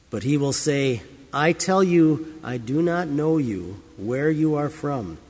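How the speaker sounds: measured, formal Bible reading; scripture reading. Acted. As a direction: read the Gospel to the congregation with weight. Reads the Gospel lesson aloud.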